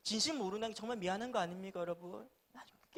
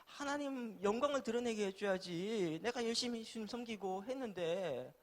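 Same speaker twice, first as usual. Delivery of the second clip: mock-aggrieved protest to God, pitched up; resentful complaint; 4 semitones higher than usual. Preacher re-enacting his complaint to God after failing exams, resentful. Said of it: "라고 원망했어요".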